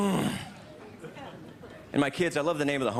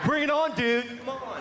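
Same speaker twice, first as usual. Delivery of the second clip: mock tough guy; 11 semitones higher than usual. Comedian imagining a Tae Bo guy challenging someone to a fight. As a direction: puff up and taunt like a Tae Bo fighter.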